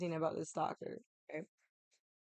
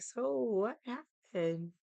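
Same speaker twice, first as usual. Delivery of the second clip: put-on drunk; 3 semitones higher, much slower than usual. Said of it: "you can tell I'm still fucking drunk".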